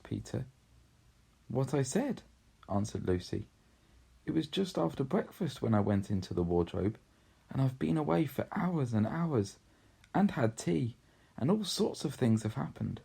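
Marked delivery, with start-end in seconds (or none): 1.5-13.0 a lightly voiced girl, a bit higher; earnest girl. Lucy explaining the wardrobe to siblings, earnest.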